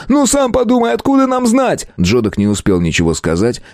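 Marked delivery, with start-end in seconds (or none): 0.1-1.9 high, exasperated protest; near shout. A narrator's reading. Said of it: "почти крикнул Валидол". (почти крик, высоким голосом)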